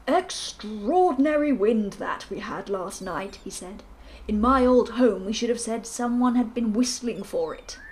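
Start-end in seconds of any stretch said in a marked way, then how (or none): 0.1-3.4 slow, hearty colonel voice; a bluff old soldier musing. Acted. 4.3-7.8 louder, booming colonel voice; bluff colonel. Acted.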